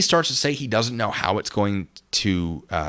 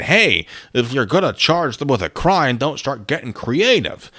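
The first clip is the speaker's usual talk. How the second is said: imitating officials; 3 semitones higher, 4 dB louder, slower than usual. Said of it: "I don't doubt they said".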